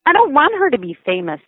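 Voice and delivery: put-on high, tearful child's wail; bursting into tears. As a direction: voice a little girl breaking into tears. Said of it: "bursting suddenly into tears".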